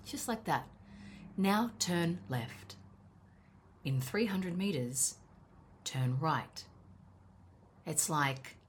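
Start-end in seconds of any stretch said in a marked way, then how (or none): 1.4-6.6 slow, even sat-nav announcer; Siri-like navigation voice. Retold or imitated. A light imitation of Siri giving driving directions, slow and even. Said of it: "like Siri or the lady".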